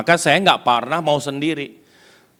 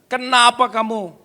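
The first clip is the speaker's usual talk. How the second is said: high, raised voice in indignant protest; imitated yelling; 13 semitones higher, 6 dB louder than usual. Preacher voices the guest objecting to church music, high indignant shouting. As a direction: shout the complaint across the room, starting slow and loud. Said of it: "dia teriak, dia berdiri".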